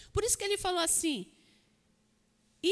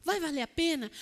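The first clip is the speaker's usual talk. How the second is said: usual speaking voice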